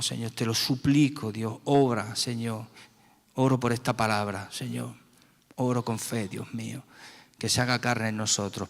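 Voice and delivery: earnest spoken prayer, calling on God after each phrase; fervent prayer. Real, not acted. Leading the congregation in prayer, earnest and pleading. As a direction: pray with your whole heart, pleading.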